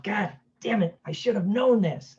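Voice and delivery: lightly acted self-reproach; mock frustration.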